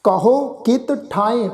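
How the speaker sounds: ਕਹੋ pressed with weight, slowly; stress on ਕਹੋ. Shown as a demonstration. Teacher shows the congregation where to put stress, slow. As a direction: lean on the ਹ in ਕਹੋ. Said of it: "ਇਹਦੇ ਤੇ ਦਬਾਅ ਪਾ ਕੇ ਉਚਾਰਨ ਕਰਾਂਗੇ ਕਹੋ".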